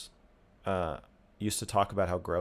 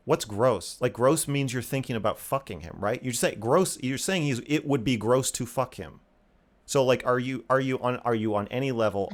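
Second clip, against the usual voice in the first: mildly insistent, a bit higher; retold confrontation; 4 semitones higher than usual. Man retelling how he cornered his ex over "gross", mildly insistent. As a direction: press the point like a retold argument.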